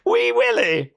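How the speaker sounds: bad Scottish accent, laughing through it. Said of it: "my Scottish accent's not brilliant".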